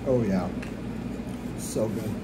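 talking while chewing food; words muffled by food; mouth full, chewing. Real, not acted. Seen 1: Bite taken at -7; mouth pursed and working while speaking.

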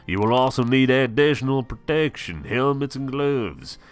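a storekeeper laying down the rules; storekeeper Calvin. Acted. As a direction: boom out the shop rules like a proud storekeeper.

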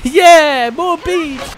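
high-pitched goofy Ron; imitating Ron. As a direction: squeak it like Ron. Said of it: "Ron's just happy about beans".

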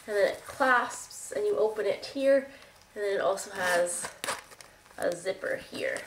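stuffy nose, nasal and congested. Real, not acted. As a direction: talk through a blocked nose. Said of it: "my nasally congested voice".

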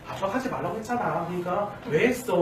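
gentle, toned-down chiding; soothing mild reproach. Acted. Mother calming the child after dad's outburst, gently reproachful. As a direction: coax the child while slightly scolding. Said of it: "라고 달래지만 약간 책망하는 말투".

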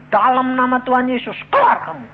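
loud, high command to cast out; commanding rebuke. Retold or imitated. Pastor loudly commands the demon to leave. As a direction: order the spirit out with force.

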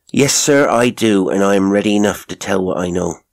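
a hint of a housekeeper, readily willing; lightly voiced servant woman. Mrs Toller agreeing to tell Holmes, lightly voiced servant woman. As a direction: lightly play a servant ready to tell all.

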